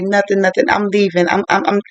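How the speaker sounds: mildly agitated retold protest; flustered refusal. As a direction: act out someone stumbling to get away. Flustered excuse to leave, acted out.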